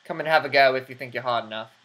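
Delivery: put-on a rough, quick stab at a British accent, lightly done; poor British accent. Mimicking British friend Earth, in a poor British accent. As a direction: rattle it off in a hammed-up British accent. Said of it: "A poor British accent".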